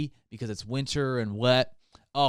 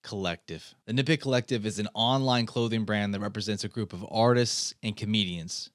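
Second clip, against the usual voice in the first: over-the-top ad read; yelling; 3 semitones lower than usual. Acted. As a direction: shout the sponsor pitch like a TV pitchman. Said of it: "I'm sorry I was yelling".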